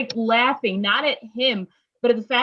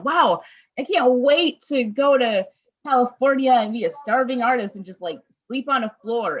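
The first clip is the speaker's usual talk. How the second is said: higher, louder, wide-eyed gush about California; naive dreamy excitement; 4 semitones higher, 3 dB louder than usual. Retold or imitated. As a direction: play your naive younger self, all starry-eyed. Naive younger self dreaming aloud.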